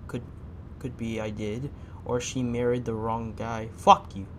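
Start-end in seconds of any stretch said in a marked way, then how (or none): 3.7-4.3 loud outburst. Real, not acted. Angry at the driver.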